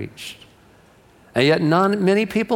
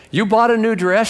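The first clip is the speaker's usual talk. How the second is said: higher, mock-shocked question; disbelieving husband; 7 semitones higher than usual. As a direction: play a husband catching out his wife. Husband confronts wife over purchase.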